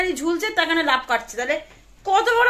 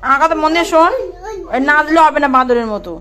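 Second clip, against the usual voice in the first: scolding; 4 dB louder than usual. Real, not acted. Scolding the bird.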